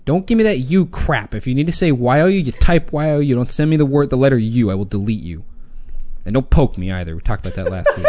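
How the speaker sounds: mock grammar rant. Real, not acted. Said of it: "that's my Grammar Media rant".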